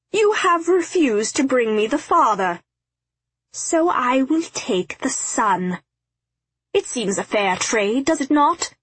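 high, swooping theatrical villain voice; gloating villain. A narrator's reading. Dervish claims the son in the father's place, gloating. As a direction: gloat grandly over the bargain. Narrator acts triumphant Dervish.

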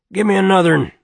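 put-on loud, high drunken barfly; tramp's loud boozy call; whiskey voice. A narrator's reading. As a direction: bark out the order like a drunk. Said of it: "said the whiskey voice".

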